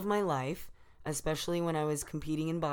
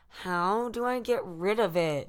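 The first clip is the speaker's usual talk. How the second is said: put-on higher, louder whiny white girl; generic white girl impression; 4 semitones higher, 5 dB louder than usual. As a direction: play up a fretting white girl. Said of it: "I love your generic white girl impression".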